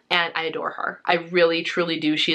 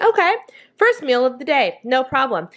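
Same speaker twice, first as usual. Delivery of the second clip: chirpy; 5 semitones higher than usual. Retold or imitated. Cheery quote about skipped breakfast.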